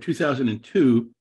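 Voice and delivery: "two thousand and two" repeated with firm stress; emphatic repeat. Real, not acted. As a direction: stress each part of "two thousand and two" to underline it. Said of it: "I underline the word".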